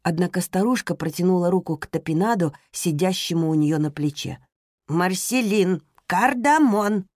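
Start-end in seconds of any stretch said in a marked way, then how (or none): 4.9-7.1 insistent demand. Acted. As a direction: press her for it. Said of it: "повторила она с напором". (настойчиво, с напором)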